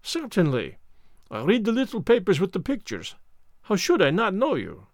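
fussy Belgian detective voice; lightly French-accented precise gentleman; Hercule Poirot. Acted. Poirot speaks.

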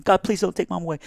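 high pleading cry; desperate plea. Retold or imitated. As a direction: beg high and urgent. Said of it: "we're just going".

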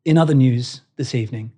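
solemn anchor; grave newsreader. Retold or imitated. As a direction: break bad news gently. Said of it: "they'll say".

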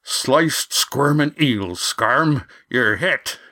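slow, shocked oath; alarmed exclamation. Acted. Skipper sees wounded man.

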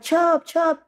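retold screaming. Dad screaming son's nickname down the phone, high imitated cry. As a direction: call the name out high, like a panicked father. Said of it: "He was screaming".

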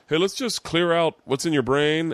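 lightly voiced calm monk. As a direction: soothe a restless student. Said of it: "And he was like".

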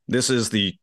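put-on a light Canadian accent, official fire chief tone. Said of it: "That's an incredible Canadian accent".

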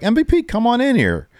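very high, friendly beckoning call; Brock impression. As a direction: call him in, high and cheery.

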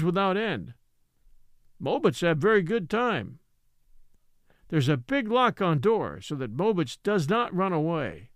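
lightly voiced old storyteller, deliberate and indignant; old Ebbets, storytelling. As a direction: explain the foolishness like a village elder.

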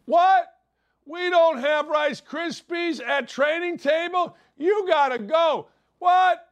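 high, loud indignant whine; spoiled recruit shrieking about cereal; mock player outrage. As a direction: squeal in fake outrage.

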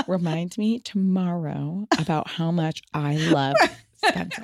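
slow, laughing mock dictation; fail to hold it through laughter. Son laughing while imitating brother's mock reminder. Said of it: "he'll pick up his phone and go".

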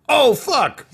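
sudden high, loud yelp; a majordomo's startled cry, high and loud; startled yell. Acted. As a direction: yelp it out in shock. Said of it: "Toydarian majordomo was like".

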